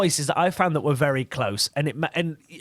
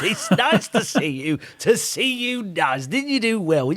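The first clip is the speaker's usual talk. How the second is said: Bruce Forsyth; 3 semitones higher than usual. Acted. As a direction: deliver the catchphrase like an old TV host. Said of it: "I was still doing Bruce Forsyth".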